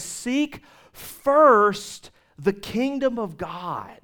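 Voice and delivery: slow whispered scripture; hushed Jesus quote. Acted. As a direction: drop to a slow hush for the words of Jesus. Preacher quotes Jesus softly.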